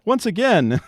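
high, slow Yoda-style backwards talk. Retold or imitated. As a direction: flip the words like Yoda. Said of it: "Does he really write like Yoda?".

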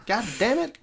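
high-pitched, badly faked Kentucky accent; attempted Kentucky accent. Friend mocked for his accent tries again, poor Kentucky attempt. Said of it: "his best Kentucky accent".

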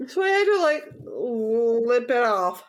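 high laughing speech. Real, not acted. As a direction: giggle through it. Laughs at chili on cheesecake.

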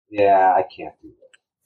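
slow, drawn-out giving up; resigned. Retold or imitated. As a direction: sigh the words out, defeated. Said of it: "and then I was like".

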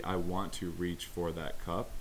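slow, deliberate inner wish; wanting it. Retold or imitated. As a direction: voice the intent to reach, slowly. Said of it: "desire has to be".

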